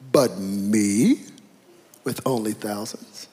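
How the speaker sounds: low, wounded British voice; slow, hammed-up British self-pity; British accent. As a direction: drop low into a pompous British "me". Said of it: "he has a British accent".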